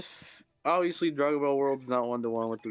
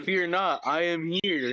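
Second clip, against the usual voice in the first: pompous vain hero; 5 semitones higher, slower than usual. Retold or imitated. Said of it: "All Might, he's like".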